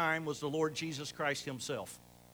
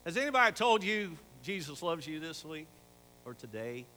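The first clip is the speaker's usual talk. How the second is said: imitating a Mayberry accent, a bit louder; 4 dB louder than usual. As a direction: lightly put on a Mayberry accent. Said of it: "in his Mayberry accent".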